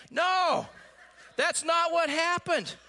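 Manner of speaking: laughing, high and loud. Real, not acted. Preacher laughing to the congregation, high laughing no. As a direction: laugh it off with a big no.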